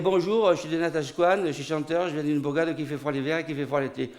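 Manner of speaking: mock accent-free French; Québécois singer stripped of his accent. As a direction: put on a French with no regional accent. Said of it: "de parler sans accent".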